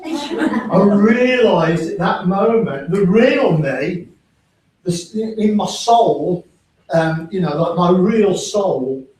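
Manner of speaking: slow, deliberate reflection. Real, not acted. Speaker telling the audience his realisation, slow. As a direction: drag out each phrase thoughtfully.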